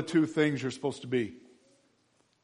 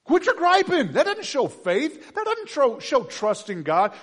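loud, higher, slow and emphatic preaching; full-force preaching; 12 semitones higher, 9 dB louder than usual. Acted. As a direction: preach it out hard to the church.

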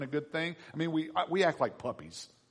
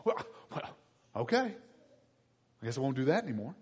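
mock sulking; faster than usual. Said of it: "if we don't get the treat".

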